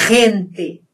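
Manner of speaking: "Gente" starting with a strong throat friction; throaty Spanish G. Shown as a demonstration. Teacher repeats the example, throaty G in "Gente". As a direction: rasp the first sound of "Gente", no trill. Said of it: "na garganta".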